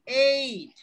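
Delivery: এইট said as "eit" with a clear ei glide; teacher showing how to say eight; pronunciation demo. Shown as a demonstration. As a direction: model এইট slowly, ei then t. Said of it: "উচ্চারণ কি বলেন ভাই?".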